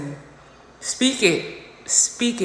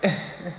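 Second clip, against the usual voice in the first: laugh; 2 semitones lower, 4 dB quieter than usual. Real, not acted. Laughs at her own self-correction.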